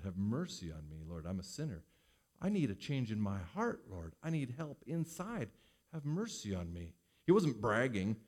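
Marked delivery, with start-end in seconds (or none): 0.0-6.9 soft, humble prayer with head bowed; quietly begging for mercy; humble plea. Retold or imitated. Preacher voicing the humble sinner praying to God, soft and humble. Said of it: "humble before God".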